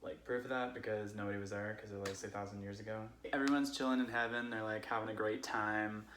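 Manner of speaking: put-on casual drunk Californian friend telling Bible stories; Californian accent. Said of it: "I'm going to tell them as a Californian would".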